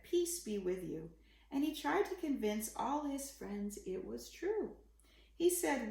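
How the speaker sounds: put-on gentle read-aloud for children; story narration. A narrator's reading. Parent reading a bedtime picture book, gentle storytelling. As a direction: read the rhyming story to a little one.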